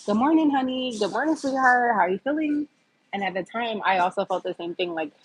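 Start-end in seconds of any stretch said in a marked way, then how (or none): 0.1-2.7 higher, sing-song caring greeting to a patient; imitating her old cheery bedside hello; sweet nurse greeting.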